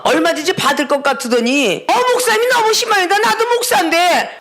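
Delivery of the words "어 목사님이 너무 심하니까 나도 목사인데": 높은 음으로 억울한 듯 따지는 흉내; 책망에 반발하는 목사를 흉내 내듯; 항의하는 흉내. Retold or imitated. (높게 따지는 말투)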